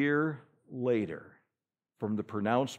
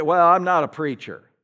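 quoting a reluctant churchgoer, louder; mock excuse; 3 semitones higher, 9 dB louder than usual. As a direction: play the excuse-maker.

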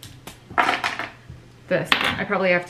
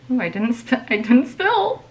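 thrilled; 2 semitones higher than usual. Real, not acted. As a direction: squeal that you didn't spill. Relieved she did not spill.

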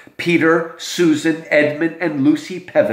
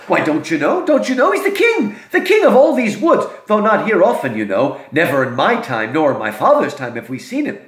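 Mister Beaver. Acted. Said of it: "And he says".

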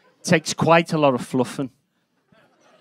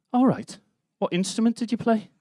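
raised pitch, imitating someone asking; high-voiced questioner; 9 semitones higher than usual. Stranger asks the comedian what instrument he played, high-voiced imitation. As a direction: quote a questioner in a much higher voice.

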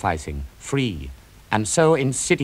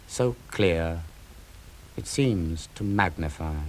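grieving tenderness. Acted. Achilles mourns Patroclus.

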